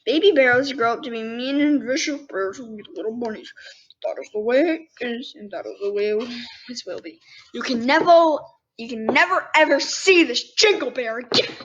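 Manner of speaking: a hint of a stern papa bunny; stern father. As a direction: firmly lay down the law. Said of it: "he said sternly".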